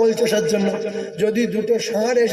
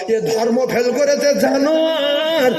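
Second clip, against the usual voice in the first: scornful owner; 5 semitones higher, slower than usual. Acted.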